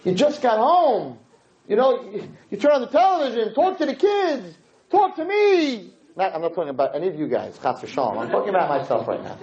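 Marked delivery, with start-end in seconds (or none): 0.0-5.9 wife's plea. Retold or imitated. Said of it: "And she says".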